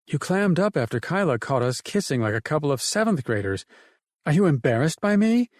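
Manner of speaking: lightly voiced woman recalling her dad; Emily's voice. Emily telling Ted about her father's guns, lightly voiced woman.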